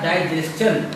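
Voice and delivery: "डाइजेशन" said as dai-jest-chan, with ch; the pure way, "डाइजेशन" with tsch; correct pronunciation. Shown as a demonstration. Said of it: "शुद्ध pronunciation होता है".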